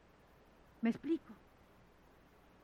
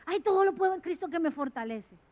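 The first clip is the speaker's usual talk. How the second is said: mock careless quote; 3 semitones higher, 3 dB louder than usual. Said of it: "utilizado como un amuleto".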